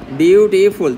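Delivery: বিউটিফুল in three firm, separate syllables. Shown as a demonstration. Teacher asking for the syllable count, বিউটিফুল sounded out in parts. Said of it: "তিনটা syllable না?".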